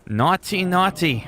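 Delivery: high sing-song naughty naughty; teasing. Acted. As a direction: wag a finger with your voice.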